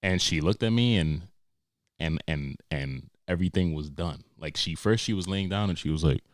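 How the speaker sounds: ordinary delivery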